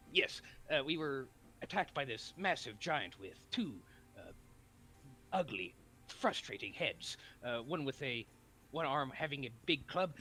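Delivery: earnest anime hero. Acted. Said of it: "anime protagonist voice".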